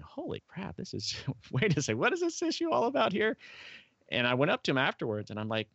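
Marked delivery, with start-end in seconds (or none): 0.0-3.4 imitating his younger self, thunderstruck; retold shock. Recalling a climatologist's talk in Australia, mock stunned high voice. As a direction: voice jumping much higher in stunned disbelief. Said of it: "And I'm going".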